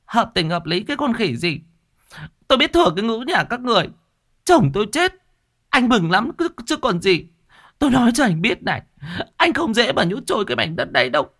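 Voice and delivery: high, fast and shrill, spitting accusations; she's seething, hurl every word at him; voiced widow in a rapid high tirade; furious yelling. A narrator's reading. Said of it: "Bà Liên xem chừng tức lắm".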